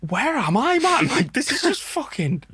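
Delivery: high bewildered where am I; marvel, voice lifted high; bewildered awe. Retold or imitated. Awed at the waterfall.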